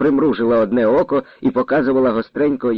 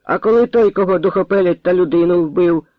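put-on young rooster voice; 6 semitones higher than usual. A narrator's reading. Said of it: "молодим півником подав голос". (високим півнячим голосом)

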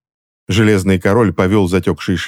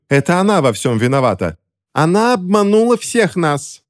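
high-pitched accusation, climbing higher; accusing cry; 10 semitones higher than usual. A narrator's reading. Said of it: "закричала Джелия Хоуп".

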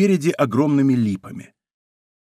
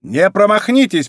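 loud, higher command from the dark; 6 semitones higher, 5 dB louder than usual. A narrator's reading. Leader orders his riders not to miss, loud. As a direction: call it out firmly to the men. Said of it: "произнёс громкий голос".

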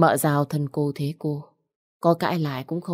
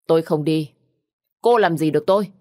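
defiant shout; 4 dB louder than usual. Acted. Widow defies the aunt.

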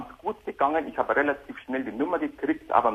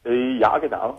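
distant hands-free phone sound; on speakerphone; 3 dB louder than usual. Real, not acted. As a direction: caller on a speakerphone. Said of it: "geh doch mal ein bisschen näher ran".

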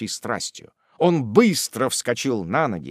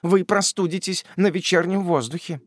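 a touch of tender concern, raised voice; deep compassion; 8 semitones higher than usual. A narrator's reading. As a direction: fuss over him gently. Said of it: "тоном глубочайшего сострадания".

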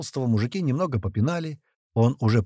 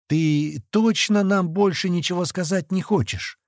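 slow, higher-pitched coaxing question; mock-affectionate; 6 semitones higher than usual. A narrator's reading. Knifeman prodding the captive's belly, mock-affectionate. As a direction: coax him sweetly, taking your time. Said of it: "ласково спросил Клёпа".

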